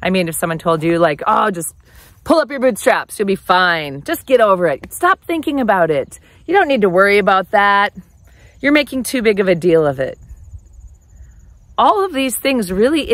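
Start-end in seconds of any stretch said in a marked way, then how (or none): 1.3-10.2 louder, brushing-off tough-love lecture; mock impatient telling them to get over it; dismissive. Friend telling someone to pull up their bootstraps, loud and dismissive.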